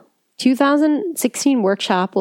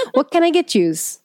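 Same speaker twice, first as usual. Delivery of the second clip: put-on Chicago accent; 6 semitones higher than usual. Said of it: "Chicago people also say".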